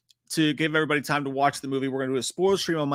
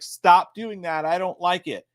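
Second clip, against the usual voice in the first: put-on protesting girl; 4 semitones higher, 5 dB louder than usual. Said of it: "she's like".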